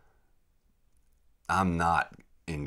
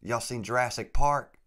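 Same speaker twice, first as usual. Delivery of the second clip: Louisiana guide; 7 semitones higher, 6 dB louder than usual. Retold or imitated. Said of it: "He said".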